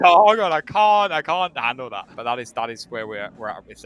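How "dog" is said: "Dog" yelped much higher and louder; mock Daphne "Dog". Cohost imitating how Daphne says "Dog", high and loud. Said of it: "It's why she says".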